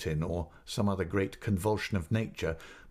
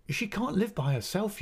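insistent repeat; 12 semitones higher than usual. Acted.

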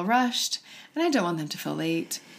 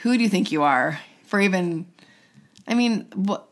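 harsh inner critic. Retold or imitated. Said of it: "the voice in my head was saying".

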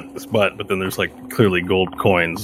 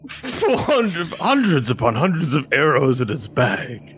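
a lightly voiced suspicious guard; game master as the guard sizing up the party, lightly voiced; guard questioning. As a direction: quiz the strangers, mildly wary.

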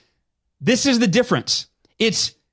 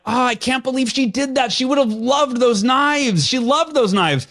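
retold venting; 5 semitones higher than usual. Salesman venting after a canceled order, mock exasperated. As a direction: lament it in mild disbelief.

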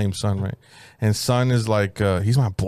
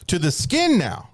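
Vietnamese accent attempt; 6 semitones higher, slower than usual. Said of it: "I can't do the accent".

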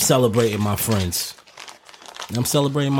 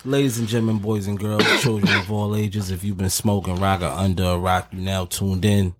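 grand entrance announcement; 3 semitones lower than usual. Acted. Opening the podcast episode.

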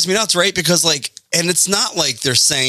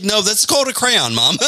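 laughing daughter quote; 10 semitones higher than usual. Retold or imitated. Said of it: "my daughter, like, is like".

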